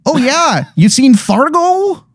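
high, slow hammed-up Wisconsin accent; drawn-out, overdone Midwest twang; bad Wisconsin accent. Wizard asks the player about Fargo in a bad Wisconsin accent. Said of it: "he goes".

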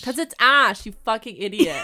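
loud, exasperated outburst at the heroine; exasperated yell. Real, not acted. Cohost yells at the clueless heroine, exasperated shout. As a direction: throw it at her, fed up.

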